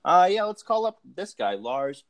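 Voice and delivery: a lightly voiced dopey booker, high and hesitant; mock clueless booker. Mocking the bookers calling up Lars, dopey voice. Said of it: "they were like".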